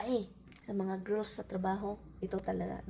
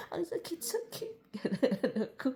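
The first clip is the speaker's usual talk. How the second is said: high laughing "Ang sakit-sakit"; 5 semitones higher, 4 dB quieter than usual. Real, not acted. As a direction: laugh through the words at herself. Laughing at own dream crying. (tumatawa habang nagsasalita)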